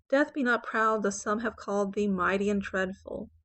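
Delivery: "thee mighty and dreadful" run on with no pause; flowing enjambment. Shown as a demonstration. Teacher showing enjambment, no break between "thee" and "mighty". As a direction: flow straight from "thee" into "mighty". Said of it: "he's flowing from the word "thee" to the second line".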